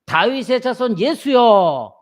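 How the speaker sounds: slow, loud cry of a beggar; a beggar's slow pleading shout. Retold or imitated. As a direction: call out to Jesus from the roadside. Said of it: "지체 없이 외칩니다".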